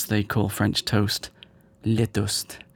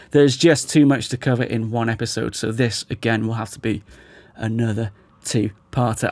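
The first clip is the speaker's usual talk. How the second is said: losing my voice, hoarse and strained. Real, not acted. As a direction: talk through a worn-out hoarse voice. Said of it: "my voice is barely existent".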